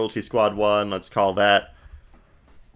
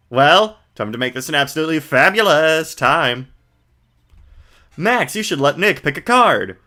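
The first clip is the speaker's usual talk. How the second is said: flamboyant magician; 5 semitones higher, 3 dB louder than usual. Acted. Max greeting the visitors, lightly voiced flamboyant showman. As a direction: ham up a vain showman. Voices characters reading game text.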